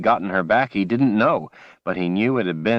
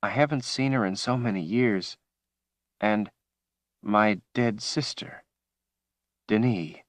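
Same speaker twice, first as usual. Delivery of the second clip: tearful; 3 semitones higher, 5 dB quieter than usual. Acted. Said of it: "she sobbed".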